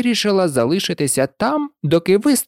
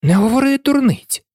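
more boldly; 10 semitones higher than usual. A narrator's reading. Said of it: "сміливіше промовила Аліса".

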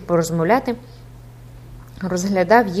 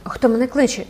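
startled exclaim; 5 semitones higher than usual. A narrator's reading. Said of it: "вигукнув Юпітер".

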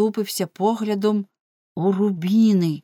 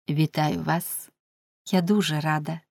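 soft voice; 3 dB quieter than usual. A narrator's reading. Hurt wife congratulating her husband, soft voice. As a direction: congratulate meekly, taking your time. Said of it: "промовила вона м'яким голосом".

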